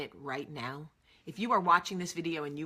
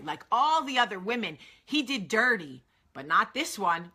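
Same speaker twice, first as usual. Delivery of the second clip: mock swooning; 4 semitones higher, 6 dB louder than usual. Mocking the romance fantasy.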